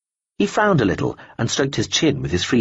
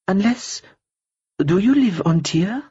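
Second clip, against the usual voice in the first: higher, slow, cool woman's voice; a cool, polite stranger brushing him off; lightly voiced woman; 10 semitones higher, slower than usual. Woman character voice.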